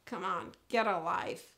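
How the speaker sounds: low, soft, unimpressed dog voice; aloof dog. Acted. Emotionally unavailable spaniel answering owner, low dismissive voice. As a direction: brush off the owner, low and detached. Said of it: "emotionally unavailable".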